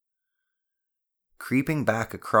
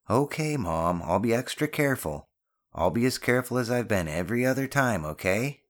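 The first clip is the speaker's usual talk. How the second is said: put-on higher-pitched boy giving in; pitched-up, grudging promise; placating son; 6 semitones higher than usual. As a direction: reassure mom with mild impatience.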